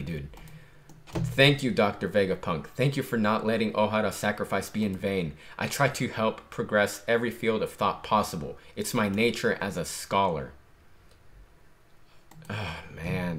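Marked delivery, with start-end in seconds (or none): 1.1-10.5 soft, even reading of the panels; reading manga aloud. Acted. Fan reading the chapter to viewers, soft reading voice. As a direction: read the lines through, softly.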